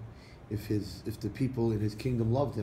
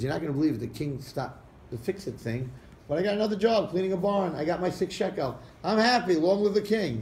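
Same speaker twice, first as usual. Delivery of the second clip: overjoyed; 7 semitones higher, 4 dB louder than usual. Retold or imitated. Poor man tells disguised king joyfully.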